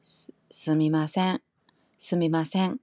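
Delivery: Kansai-style 스미마센 with a rise on 센; Kansai accent. Shown as a demonstration. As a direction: say 스미마센 in Kansai dialect, lifting the end 센. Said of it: "칸사이 쪽, 어, 인토네이션은".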